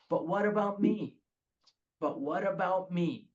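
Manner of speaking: self-pitying mock plea; whiny refrain. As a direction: press it like a petulant demand. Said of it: "the battle cry of this alcoholic".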